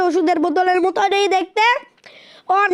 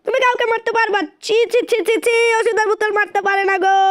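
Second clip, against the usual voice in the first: mocking tut; 3 semitones higher than usual. Real, not acted. Mocking the enemy.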